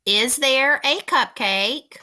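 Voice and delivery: slow, emphatic dictation with a long pause midway; careful dictation. Shown as a demonstration. Teacher dictating a sentence to pupils.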